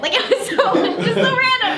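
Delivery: laughing through the words. Real, not acted. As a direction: giggle while saying it. Laughing about the random role.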